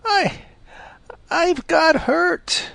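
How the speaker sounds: high, slow, tearful little fox; crying. A narrator's reading. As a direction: whimper it out through tears. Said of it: "began to cry harder".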